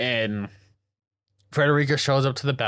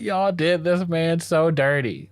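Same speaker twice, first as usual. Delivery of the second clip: slower, higher-pitched mock outrage; indignant protest; 5 semitones higher, slower than usual. Fan objecting to the recording being passed around, indignant. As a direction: draw it out in raised-pitch protest.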